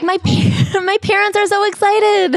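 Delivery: high, laughing put-on husband voice; mock giddy husband spilling the news. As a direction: gush it out, giggling. Husband blurts news, retold.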